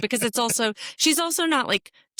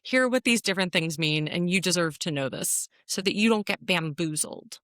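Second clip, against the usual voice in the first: slowed, announcer-like blog voice; mock blog post read. Joking to her co-host, mimicking a blog post announcer. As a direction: read it like a headline pitch. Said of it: "I hear a blog post coming".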